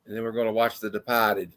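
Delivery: "Departed" as "Depahted", r dropped, Boston style; Boston accent. Pretend. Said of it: "that's my worst Boston accent".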